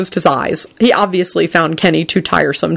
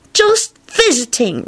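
put-on slow, higher stubborn child voice; stubborn reply; 6 semitones higher, slower than usual. A narrator's reading. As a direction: drag it out stubbornly. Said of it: "replied Teddy stubbornly".

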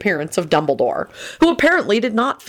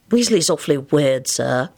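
fervent. A narrator's reading. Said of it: "Lupin put in fervently".

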